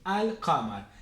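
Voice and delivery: 'Al-qamar' with an audible L; lunar article read in full. Shown as a demonstration. Teacher repeats the lunar example, 'Al-qamar' with L sounded. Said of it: "se lee al-qamar".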